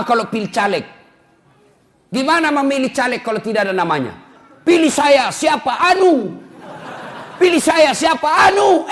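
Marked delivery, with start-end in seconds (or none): 4.7-6.3 shouted high as a nameless candidate; mock campaign shout. Preacher mocking a nameless election candidate, loud and high. 7.4-8.9 shouted high as a nameless candidate; mock campaign shout. Preacher mocking a nameless election candidate, loud and high.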